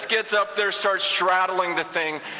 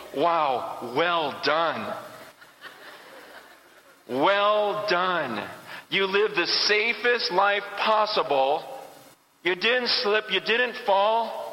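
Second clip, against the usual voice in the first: a hint of an unimpressed judge; mock praise from the judge; 2 semitones lower, much slower than usual. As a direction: lightly voice the judge, dry and ironic. Imagined judge praising safe life.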